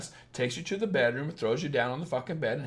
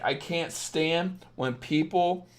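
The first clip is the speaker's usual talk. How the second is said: usual speaking voice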